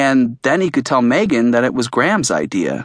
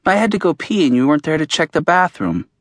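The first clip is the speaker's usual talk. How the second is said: lightly voiced boy, a touch higher and insistent; voicing Max; 4 semitones higher, faster than usual. A hint of the boy's voice, insistent. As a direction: narrator reading Max's complaint to his friend. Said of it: "Max says".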